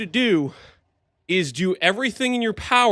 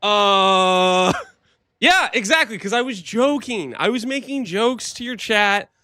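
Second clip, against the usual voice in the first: higher, laughing, caught out; sheepish laughing; 4 semitones higher, 3 dB louder than usual. Real, not acted. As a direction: laugh it off, embarrassed. Caught joking, laughs, defends.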